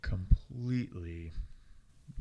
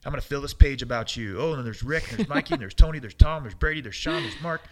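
gleeful listing; 5 semitones higher, 9 dB louder than usual. Retold or imitated. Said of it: "I'm like".

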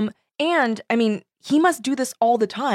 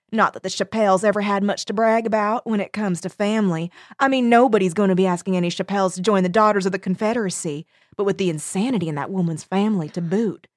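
quick, catty Southern gossip; Southern accent; faster than usual. Acted. Junebug gossiping about the family, Southern accent. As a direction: dish the dirt like a Southern aunt. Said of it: "That was an excellent accent".

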